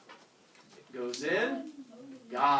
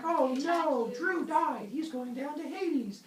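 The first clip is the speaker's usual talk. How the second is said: mock dismay; 13 semitones higher, 3 dB louder, much slower than usual. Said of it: "You're like".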